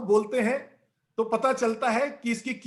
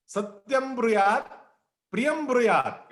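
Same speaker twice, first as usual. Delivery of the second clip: Sanskrit verse recitation. Acted. Speaker quotes the scripture in full, measured recitation. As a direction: draw out the verse, phrase by phrase.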